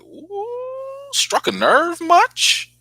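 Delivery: a high, squealed ooh, then a slow teasing jab. Retold or imitated. Vlogger teasing Monica for getting defensive, in a slow, high mocking voice. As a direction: needle her slowly, struck a nerve much. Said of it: "I was like".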